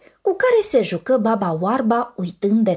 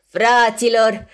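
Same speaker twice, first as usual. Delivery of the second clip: glad call; 4 dB louder, slower than usual. Acted. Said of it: "strigă bucuros Martin".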